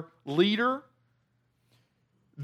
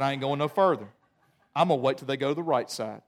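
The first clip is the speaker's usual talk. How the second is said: fish voice; 6 semitones lower, faster than usual. Retold or imitated. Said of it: "crossed their fins".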